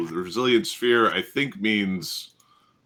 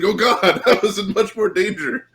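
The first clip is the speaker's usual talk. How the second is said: high, loud realisation through laughter; mock alarm, laughing; 13 semitones higher, 7 dB louder than usual. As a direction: laugh through a hammed-up panic. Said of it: "It's like".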